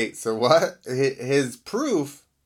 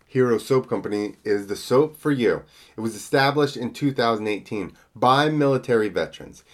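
ad read; 4 dB louder than usual. Acted. Sponsor ad read.

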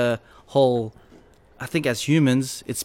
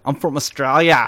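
cheesy pickup line; 2 semitones higher, 5 dB louder than usual. Retold or imitated. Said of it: "my pickup line".

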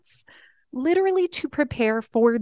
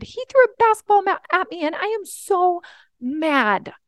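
put-on higher, louder, fast kid's complaint; mad child; 7 semitones higher, 5 dB louder than usual. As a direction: rush it out like an upset little boy. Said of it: "he runs up to me and said".

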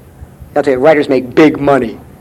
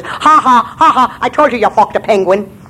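gloating laugh; 5 semitones higher than usual. Acted. Leprechaun gloats.

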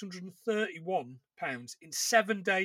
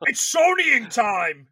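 mock announcement; 3 semitones higher, 9 dB louder, slower than usual. Joke catchphrase announcement.

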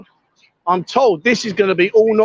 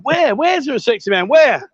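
mock searching; 5 semitones higher than usual. Jokingly looking for sexy man.

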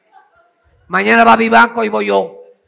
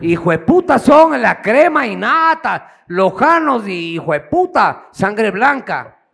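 slow mocking emphasis; 3 semitones higher, slower than usual. Real, not acted. Mocking the Loja aristocracy.

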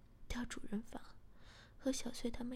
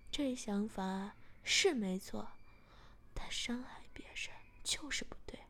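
mildly angry; 2 semitones lower than usual. Acted. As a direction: hold back a touch of anger on 伤害别人就是不对. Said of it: "我有点生气地说". (带点怒气说伤害别人就是不对)

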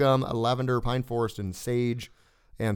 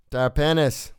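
slower Australian "Terpenus", said TAR-pen-us; Australian accent; 3 dB louder, slower than usual. Pretend. Reader retrying "Terpenus" for co-hosts in an Australian accent. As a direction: say "Terpenus" slowly with an Australian first vowel. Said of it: "said it in an Australian accent".

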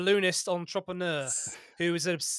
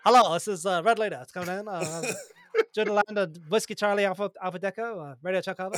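radio pilot voice. Acted. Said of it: "do it with that voice".

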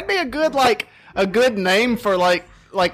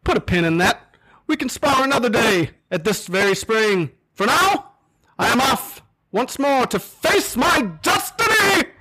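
heroic knight; 5 semitones higher than usual. Acted. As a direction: ride off proclaiming destiny.

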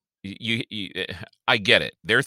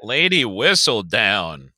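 slow, grand mock-posh British delivery of the name; hammed-up British accent; put-on British accent; slower than usual. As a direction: say it like a British society gossip, drawn out. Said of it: "where the fuck that accent came from".

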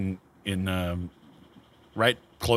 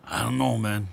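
put-on scratchy old man voice; slower than usual. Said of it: "that real heavy, scratchy voice".

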